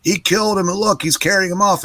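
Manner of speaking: high, scandalized imitation of the crowd; shocked onlookers. Everybody thinks, accusing crowd.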